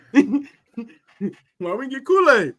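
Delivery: high, loud fan outrage; mad fan voice. Retold or imitated. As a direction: whine like a betrayed fan. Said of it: "the mad fan voice".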